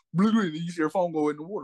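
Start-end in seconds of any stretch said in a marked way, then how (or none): 0.1-0.4 imitated splash burbles. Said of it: "And then she just go".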